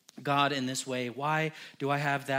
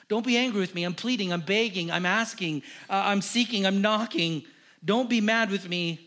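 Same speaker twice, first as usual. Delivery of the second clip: higher, louder begging prayer; earnest pleading; 4 semitones higher, 4 dB louder than usual. Acted. Abraham begs the Lord to spare the city, pleading loudly. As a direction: plead with God not to be angry.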